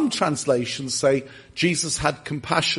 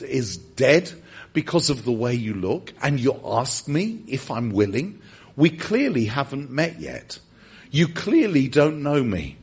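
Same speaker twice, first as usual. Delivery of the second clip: mildly offended, then gently sure; indignant Jesus; 2 semitones lower than usual. Retold or imitated. Preacher voicing Jesus answering the leper, mildly indignant. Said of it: "Jesus was indignant".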